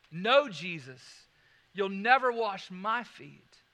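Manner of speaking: slow, stronger push on "No, Jesus". Retold or imitated.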